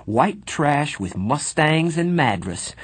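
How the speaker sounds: high, slow, furious retort; a greaser returning the insult; shaking with rage. A narrator's reading. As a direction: throw it back with trembling anger. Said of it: "my voice shaking with rage".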